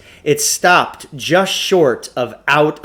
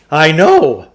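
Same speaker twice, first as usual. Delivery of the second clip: higher, louder, slow boast; grand huckster; 3 semitones higher, 7 dB louder than usual. A narrator's reading. Shopkeeper unveiling his machine, slow grand pitch. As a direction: announce it like a fairground pitchman. Klugarsh voiced in story.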